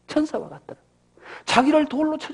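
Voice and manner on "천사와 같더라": soft repeat. Acted.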